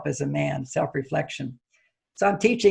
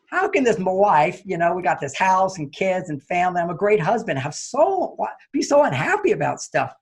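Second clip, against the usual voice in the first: inner anger. Retold or imitated. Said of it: "but I'm getting really angry".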